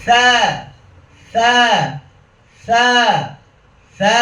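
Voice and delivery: "সা" as a soft th, tongue tip at the teeth; gentle Arabic tha on "সা". Shown as a demonstration. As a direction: lightly lisp "সা" as "tha", last one long. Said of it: "পরের বর্ণটা নরম করে বলবো".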